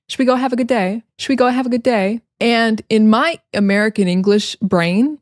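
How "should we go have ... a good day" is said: "should we" as a single "shwi", higher pitch; quoting with the first words squeezed together; reduced "should we". Retold or imitated. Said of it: "basically he said".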